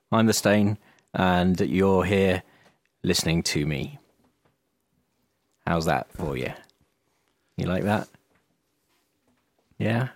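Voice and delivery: drawn-out intro with long pauses between words; dramatic slow pauses. Acted. Host opening the show to listeners, slow with long dramatic pauses. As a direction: leave long, heavy gaps for effect. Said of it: "You left a few too many pauses".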